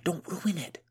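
hushed, sly warning whisper. A narrator's reading. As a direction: whisper so nobody hears. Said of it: "whispered Boya".

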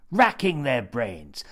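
"Racking their brains" whispered, slow and drawn out; a slow, relished whisper of "Racking their brains". Acted. Phrase repeated as a whisper.

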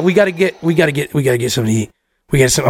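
put-on low, repetitive drunk mumble; Rob. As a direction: imitate a wasted friend stuck on one thought. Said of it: "Rob wasted".

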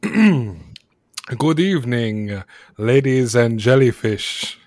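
slow, measured showman's opening; stage announcer. Acted. Ringmaster greets the wealthy patron, lightly performed stage announcing. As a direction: open the show with a drawn-out greeting. Ringmaster formally opens the show.

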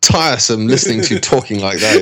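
chuckling, half-hearted imitation of an exasperated Brit; laughing mock scolding. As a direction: speak through a laugh as a fed-up friend. Mocking Fry's complaint, laughing.

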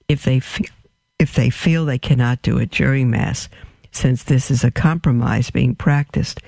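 hiccups breaking the words. Real, not acted. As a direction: speak through hiccups. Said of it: "I'm trying to hide my hiccups".

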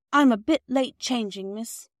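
lightly voiced working mother, a bit breathless with apology; a hint of a busy mother explaining herself; flustered housewife. Mrs Perks greets Bobby.

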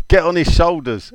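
lightly voiced touchline instruction; manager's order. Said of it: "Tell the new defender".

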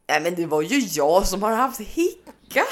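slow, matter-of-fact confession; mock dad. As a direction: lightly voice the father explaining. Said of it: "han bara". (pappa förklarar lugnt)

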